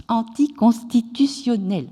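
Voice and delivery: "anticonstitutionnelles" pronounced carefully, syllable by syllable; "anticonstitutionnelles" restarted and fully articulated; careful tongue-twister retry. Real, not acted. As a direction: get through every syllable of "anticonstitutionnelles" after a stumble. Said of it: "C'est pas facile à dire".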